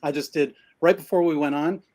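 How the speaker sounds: winded after exercise; breathless from pull-ups; out of breath. Real, not acted. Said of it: "and now I'm out of breath".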